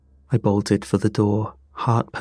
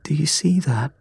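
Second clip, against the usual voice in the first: higher, sharp question; 6 semitones higher than usual. A narrator's reading. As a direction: ask it sharply in alarm. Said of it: "voice sharp".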